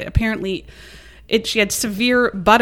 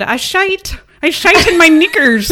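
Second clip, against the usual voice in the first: much higher, louder mock English accent; mock British accent; 8 semitones higher, 7 dB louder than usual. Telling the husband's complaint to his wife in mock British accent. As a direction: ham up a crude Brit moaning. Husband voiced in crude quote.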